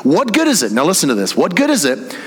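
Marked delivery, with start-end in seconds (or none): 0.0-0.7 higher-pitched, challenging question; confrontational. Acted. Preacher voicing the writer's challenge to believers, confrontational. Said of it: "he's very confrontational". 1.3-2.1 pointed, higher-pitched challenge; confrontational. Acted. Preacher restarting the writer's question for the congregation, confrontational. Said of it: "he's very confrontational".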